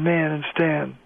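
"man" and "stand" with the A sounded as "air". Shown as a demonstration. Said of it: "is sounded as air".

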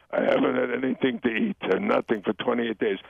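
put-on mother's complaint, lightly Jewish-accented. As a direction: play a martyred mother with a hint of Jewish accent. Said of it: "a little bit of a Jewish accent".

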